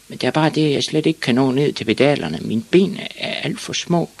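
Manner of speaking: put-on high little boy's voice; small boy Ivan. A narrator's reading. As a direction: explain high, like a small child. Small Ivan explains his problem.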